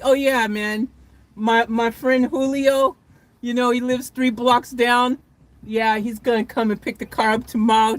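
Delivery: mock laid-back buddy chat; casual. Imitating a friend offering a neighbor's pickup, breezily casual. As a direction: toss it off like a small favor. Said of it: "How do you even say that casually?".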